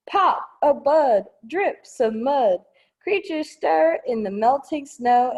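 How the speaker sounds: bright rhyming storybook read; reading to children. Acted. Librarian reading the spring pages to kids, lively. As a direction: perk up for the spring verse. Reads spring verse aloud.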